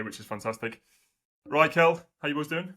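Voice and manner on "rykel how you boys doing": Rykel with a rolled Welsh lilt, sung up high; Welsh accent. Pretend. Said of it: "the Welsh accent that we were doing".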